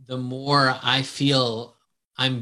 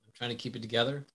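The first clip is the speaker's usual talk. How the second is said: holding in a sneeze, quiet; holding back a sneeze; 10 dB quieter, much faster than usual. Real, not acted. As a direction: talk through a held-back sneeze. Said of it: "I'm about to sneeze".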